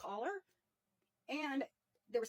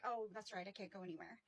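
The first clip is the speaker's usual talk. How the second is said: mock-dejected, softer and lower; mock dejected dog; 4 semitones lower, 7 dB quieter than usual. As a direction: sigh it out like a defeated pet. Dog's imagined dejected thought.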